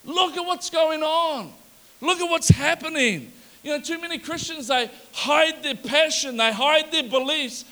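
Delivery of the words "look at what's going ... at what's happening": higher, firm, building emphasis; bold protest. Acted. Nehemiah to the king, bold rising protest. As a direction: stand up and say it plainly.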